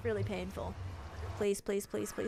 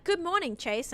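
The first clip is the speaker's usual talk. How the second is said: high, louder mock assistant greeting, dropping on the name; imitated voice assistant; 8 semitones higher, 4 dB louder than usual. Streamer imitates her smart speaker greeting her wrongly, mock assistant voice. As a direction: mimic a virtual helper's greeting. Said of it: "she goes like".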